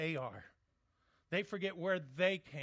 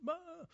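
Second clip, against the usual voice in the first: mock sob; 12 semitones higher, 3 dB quieter than usual. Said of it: "she's crying over him".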